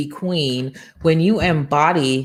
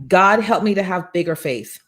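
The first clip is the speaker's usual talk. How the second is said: prayer. Shown as a demonstration. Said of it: "Call in the name of Jesus".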